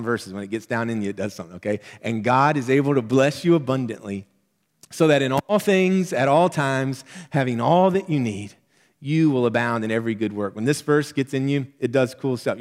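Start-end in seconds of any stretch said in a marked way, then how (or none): 2.0-10.6 fervent repeat. Shown as a demonstration. Preacher repeating verse to congregation, fervent and louder. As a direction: preach it again with rising fervor, punching all. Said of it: "Let me say it again".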